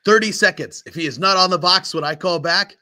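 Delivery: blustering threat over comms; angry captain. Acted. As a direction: lay down a deadline like an irate commander. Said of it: "He says".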